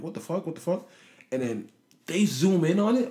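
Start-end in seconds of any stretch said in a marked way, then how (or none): 0.0-0.9 shocked disbelief. Retold or imitated. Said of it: "I'm like".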